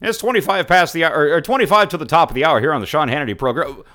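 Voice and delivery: rapid mock radio time check, hammed-up; mocking radio host. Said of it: "I love this".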